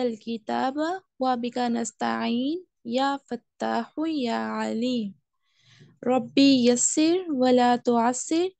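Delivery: slow, measured Arabic du'a recitation; elongated syllables, unhurried chanting pace; prayer recitation. Acted. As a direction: recite the prayer slowly, drawing out the long vowels.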